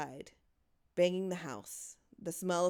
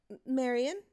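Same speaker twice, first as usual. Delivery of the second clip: anxious question; 7 semitones higher than usual. Acted. Mother anxiously asks daughter.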